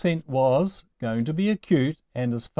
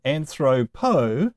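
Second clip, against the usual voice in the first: "anthropo" slowly, stressed on the middle syllable "thro"; stress on second-to-last syllable; slower than usual. Shown as a demonstration. Teacher showing the same accent shift, middle-syllable stress on "anthropo". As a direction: sound out "anthropo", leaning on "thro". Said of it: "the accent does the same thing".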